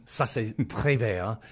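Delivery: "Ça, c'est très vrai" said slowly in French. Real, not acted. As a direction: slip into French, laughing. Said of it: "French phrase".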